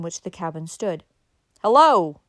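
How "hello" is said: loud, drawn-out call; big falling "hello" hail; hailing shout. A narrator's reading. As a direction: holler out to the cabin. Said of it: "he shouted".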